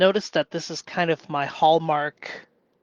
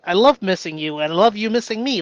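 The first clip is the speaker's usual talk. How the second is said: cheery yay; 3 semitones higher, 5 dB louder, faster than usual. Retold or imitated.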